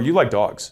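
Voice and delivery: dogs said with flat statement intonation. Showing the same line said as a statement: flat statement intonation. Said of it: "that's a very different statement".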